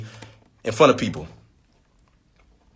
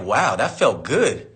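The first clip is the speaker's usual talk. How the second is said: relieved; 5 semitones lower, 4 dB quieter, much slower than usual. Retold or imitated. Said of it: "I was like".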